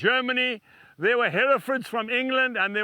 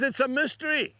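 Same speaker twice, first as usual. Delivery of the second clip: higher, lightly imitated Welsh voice; Welsh accent; 4 semitones higher than usual. Welshman answering who Jesus is, in a light Welsh accent. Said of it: "He was speaking in that Welsh accent".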